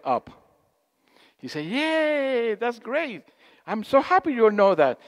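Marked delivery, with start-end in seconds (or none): 1.6-5.0 higher, cheering mock delight; delighted leader. Group leader to the audience after hands went up, delighted. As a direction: act out a pleased leader.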